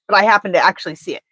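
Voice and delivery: quick whispered aside. Real, not acted. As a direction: whisper it fast under breath.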